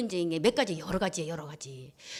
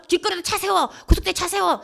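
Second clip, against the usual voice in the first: high, loud acted yelling; road-rage shout; 7 semitones higher, 6 dB louder than usual. Husband ordering a driver to stop on the highway, shouting. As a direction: yell at another car to pull over.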